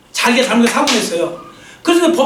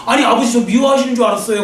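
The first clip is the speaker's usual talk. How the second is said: retold cry out. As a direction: call it out to the father in hurt disbelief. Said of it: "그러면서 막 그래".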